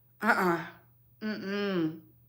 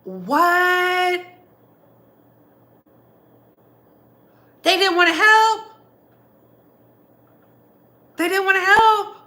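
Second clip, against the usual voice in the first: higher and louder, stunned; stunned, higher and louder disbelief; shocked disbelief; 7 semitones higher, 5 dB louder, slower than usual. Real, not acted. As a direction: repeat it in outraged disbelief. Reacting to shocking news.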